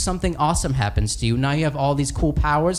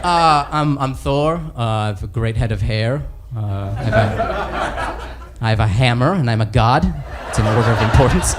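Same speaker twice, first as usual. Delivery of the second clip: dopey Thor; 6 semitones lower than usual. Acted. Thor voiced low.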